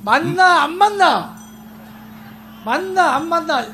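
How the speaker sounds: high, loud Gyeongsang "맞나, 안 맞나?"; 경상도 사투리로 높고 크게; Gyeongsang dialect. Retold or imitated. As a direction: throw it out in a punchy Gyeongsang lilt. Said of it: "요렇게 비슷하게".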